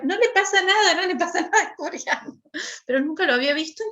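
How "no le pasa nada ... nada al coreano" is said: embarrassed hushing. Retold or imitated. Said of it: "Yo decía".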